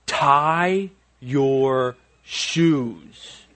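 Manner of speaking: slow, drawn-out, firm order; a dad losing patience, slow and stern; stern command. Retold or imitated. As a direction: lay down the law slowly. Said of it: "the way I just said it to you".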